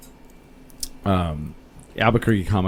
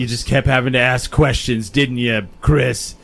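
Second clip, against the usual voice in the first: louder, pointed villain reveal; mock murderer's menace; 3 semitones higher, 4 dB louder than usual. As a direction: play the unmasked killer taunting. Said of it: "And Smiley's all".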